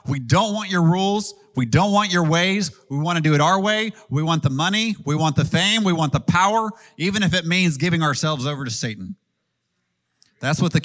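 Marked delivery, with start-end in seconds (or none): 0.1-9.2 higher, insistent voice of rebellious kings; defiant kings. Acted. Kings of the earth rejecting God's rules, defiant. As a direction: push each demand upward in defiance. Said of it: "kings of the earth are gonna say".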